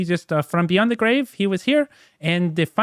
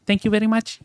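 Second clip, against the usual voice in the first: Andy Kaufman impression; 4 semitones higher than usual. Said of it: "going up as Andy Kaufman".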